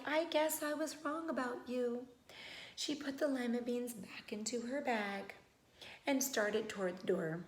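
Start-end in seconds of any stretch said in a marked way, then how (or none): 0.0-2.1 sadly. Acted. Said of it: "the old woman said sadly".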